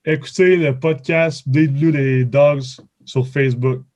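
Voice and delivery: Quebec French, said slowly. Shown as a demonstration. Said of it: "can you say ... in French?".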